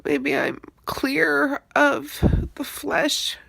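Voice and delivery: slow, tearful crying voice; words breaking with tears. Real, not acted. Crying over eating animals.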